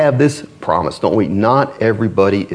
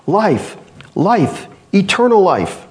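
higher pitched call of life life; crying out; 9 semitones higher, slower than usual. A narrator's reading. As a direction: cry it out as he runs.

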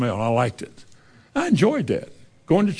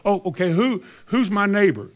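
mock evasive lawyer; 5 semitones higher than usual. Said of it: "willing to justify himself".

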